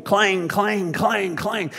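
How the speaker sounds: high, ringing clangs in a steady beat; imitated pot-banging. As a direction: mimic a pot and pan being banged. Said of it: "a pot and a pan going".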